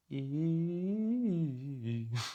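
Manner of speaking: soft, wordless siren warm-up, pitch gliding up and down; quiet, uneasy singing drill; nervous vocal slide. Shown as a demonstration. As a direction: slide up and back down on a thin held note, nervously. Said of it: "Just because I was nervous".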